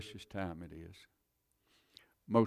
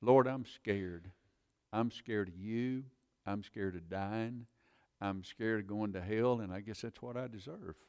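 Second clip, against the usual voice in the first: retold fearful prayer. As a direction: pray it out as a scared sinner. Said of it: "I said, God".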